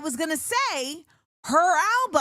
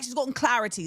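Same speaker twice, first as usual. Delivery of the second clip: CLARITY with an open "clah" vowel, British style; British "clarity" starting "cla", not "clear"; British accent; faster than usual. Shown as a demonstration. Showing how they say it, British-accented CLARITY with open vowel. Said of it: "That's actually how they say it".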